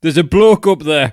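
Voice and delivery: loud, high comic bellow; mock blunt shout. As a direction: blurt it out loudly to puncture the poetry. Mock blunt translation of poetic French.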